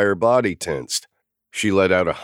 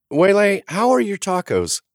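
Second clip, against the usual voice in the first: higher, bright call across the table; 4 dB louder than usual. A narrator's reading. Naomi calling to the kid, raised and high. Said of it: "Naomi called".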